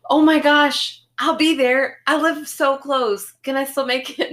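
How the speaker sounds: high, urgent mock alarm; retold panic. Patient who missed the dentist appointment, retold high-pitched panic. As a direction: exclaim high and loud, then plead. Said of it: "And I was like".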